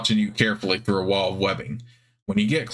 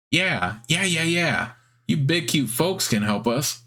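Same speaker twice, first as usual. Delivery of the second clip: higher, rapid eager yeahs; eager spider; 6 semitones higher, slower than usual. Acted. Guard spider eagerly accepting help, higher and squeaky. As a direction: jump at the offer. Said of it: "squeaky, high-pitched voice".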